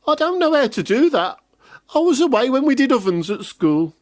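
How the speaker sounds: put-on high, quick innocent girl voice. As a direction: feign innocence like a clever girl. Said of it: "said the girl".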